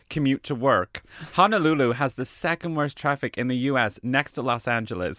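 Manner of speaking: put-on mild LA valley girl accent; a touch of an American accent. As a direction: read it lightly as an LA valley girl. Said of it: "where my accent's from".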